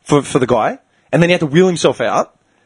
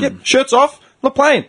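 mock defiance; 9 semitones higher than usual. Retold defiant quip, high.

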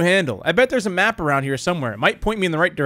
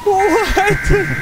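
shocked high shriek; 13 semitones higher, 3 dB louder, much slower than usual. Real, not acted. Monster suddenly licks player.

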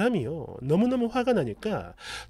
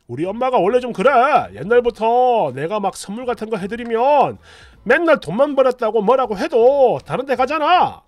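louder, fast defensive rant; a husband loudly defending his mother to his wife; 2 semitones higher, 5 dB louder than usual. Retold or imitated. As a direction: rattle off excuses for his mother. Husband excuses mother, quoted.

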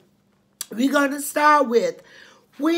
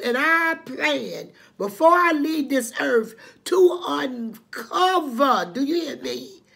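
voice breaking; 3 semitones higher, 3 dB louder than usual. Real, not acted. Vowing to expose abuse, voice breaking.

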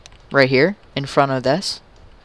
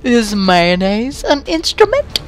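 voice changer imitation; 9 semitones higher than usual. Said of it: "With the accent, with the voice changer".

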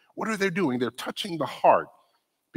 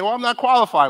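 raised, louder mock objection; pitched-up imitation of a doubtful member; hesitant volunteer; 10 semitones higher, 9 dB louder than usual. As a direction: play the reluctant churchgoer making an excuse. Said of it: "You might say".

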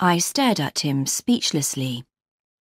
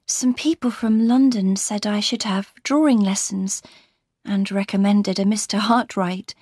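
lightly voiced wronged wife, slightly raised pitch; unhappy Laura recounting; 3 semitones higher than usual. Laura tells Marion of her husband's threats, troubled and confiding.

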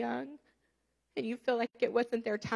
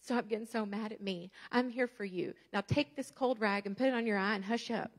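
put-on gently calm a hurt child; tender God; 3 semitones lower than usual. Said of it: "he's like".

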